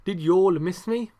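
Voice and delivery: "y'all" said as "yawl" in an English accent; awkwardly English "Did y'all miss me"; normal English accent. Shown as a demonstration. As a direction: ask it in a plain English accent, a bit loud. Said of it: "in a normal English accent".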